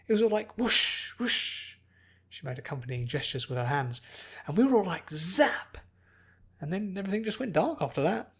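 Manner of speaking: a girl acting out the storm with noises; Pinkie storytelling.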